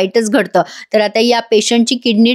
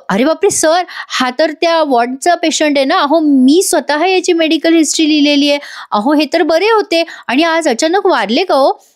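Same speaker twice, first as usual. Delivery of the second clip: higher-pitched, mildly alarmed surprise; acted shock; 5 semitones higher than usual. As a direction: question it in raised, disbelieving pitch. Acted shock at finding patient dead. (आश्चर्याने, वरच्या पट्टीत)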